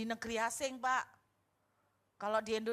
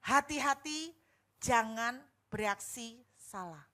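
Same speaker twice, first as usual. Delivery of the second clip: voice of God; 4 dB louder, slower than usual. Retold or imitated. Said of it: "Tuhan tiba-tiba ngomong gini".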